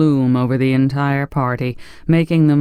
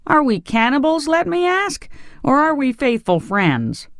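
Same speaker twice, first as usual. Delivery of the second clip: much higher, indignant, shocked questions; shocked protest; 12 semitones higher than usual. A narrator's reading. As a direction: demand it, scandalized. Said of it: "greatly shocked".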